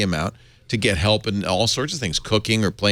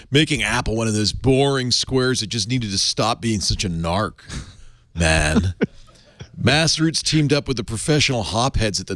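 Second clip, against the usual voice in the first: stoner voice. Acted. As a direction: read it like a mellow stoner. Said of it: "You do a good stoner voice".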